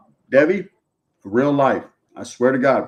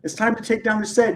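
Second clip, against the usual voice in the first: higher-pitched imitation of a nagging coworker; 5 semitones higher than usual. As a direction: lightly mimic her urging, pitched up. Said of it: "hey, she's like".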